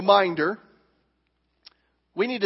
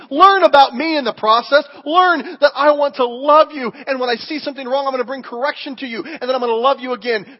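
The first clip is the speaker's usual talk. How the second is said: God's loving voice; 4 semitones higher, 5 dB louder than usual. Retold or imitated. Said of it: "he's also saying".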